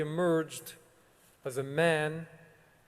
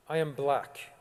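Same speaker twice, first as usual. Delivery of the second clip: put-on thick South African accent. Principal tells the school assembly he is black, lightly imitated South African accent. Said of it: "in this thick South African accent".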